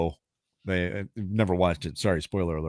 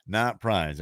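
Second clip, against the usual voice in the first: drawn-out question-of-the-day fanfare; playful game show host; segment announcer; slower than usual. Acted. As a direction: announce the quiz with mock drama.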